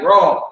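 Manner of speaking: RAW as one long syllable; demonstrated syllable. Shown as a demonstration. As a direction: draw out RAW with a falling end. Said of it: "we got accents on ours".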